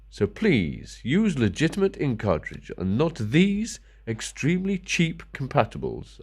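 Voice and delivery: slow, mock-solemn official warning; mock corporate warning. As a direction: parody a stern company notice, lightly. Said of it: "Epson says".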